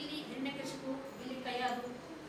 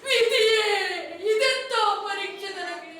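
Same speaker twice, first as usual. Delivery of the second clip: sobbing lament. Acted. Mother laments poisoning her son.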